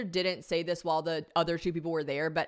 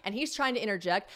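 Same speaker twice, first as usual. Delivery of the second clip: usual speaking voice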